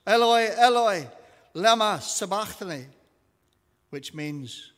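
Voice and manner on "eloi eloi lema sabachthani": high, loud crying out. A narrator's reading. Jesus cries out in a loud voice, high loud cry. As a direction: cry it out with raised pitch and force. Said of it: "cried out in a loud voice".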